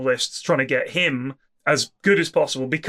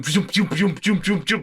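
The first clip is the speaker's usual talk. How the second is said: quick imitated zooms, lightly voiced; mock zoom noises; 3 semitones higher than usual. Imitating the hero's attacks to a friend, with light zoom noises. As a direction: mimic the hero zipping axes around. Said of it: "stood at the back going".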